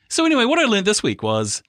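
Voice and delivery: high chirpy launch into a story; bright, eager know-it-all; imitating friend. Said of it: "and you went".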